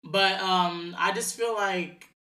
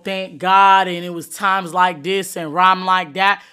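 mocking; 10 dB louder than usual. Mocking show-off social media poster.

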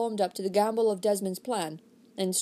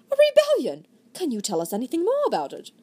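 feigned shock; 6 semitones higher, 4 dB louder than usual. Acted.

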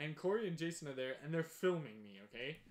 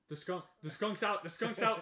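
rising mock yell that the skunk is out; retold alarmed yell; 5 semitones higher, 6 dB louder than usual. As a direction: call it out louder and higher each time. Corey yelling the skunk escaped.

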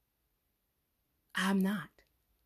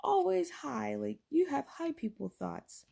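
mocking coworker; 4 semitones higher than usual. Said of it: "they're like".

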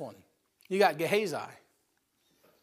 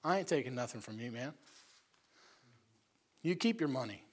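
calm refusal; 5 dB quieter than usual. Acted. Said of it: "He says".

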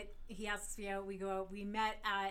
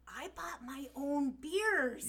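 retold indignant thought; 4 semitones higher, 4 dB louder, much slower than usual. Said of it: "in my mind, I'm thinking".

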